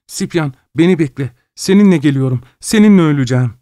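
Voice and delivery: high desperate call after him. A narrator's reading. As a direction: call across the roofs, begging. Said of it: "diye seslendi". (yüksek sesle çaresizce seslenme)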